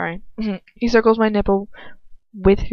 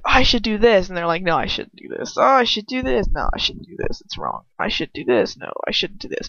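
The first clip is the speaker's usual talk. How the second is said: mocking inner debate. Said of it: "they both are like".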